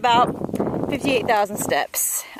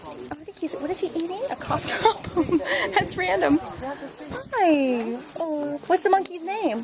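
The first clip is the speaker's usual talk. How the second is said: hushed; 6 semitones higher, 6 dB quieter than usual. Real, not acted. Quietly watching the monkey.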